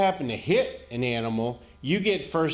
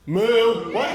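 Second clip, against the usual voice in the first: high, loud moo; imitated cow; 6 semitones higher, 5 dB louder than usual. Cows replying to the driver, imitated moo. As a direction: moo like a cow answering back. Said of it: "You know what they said?".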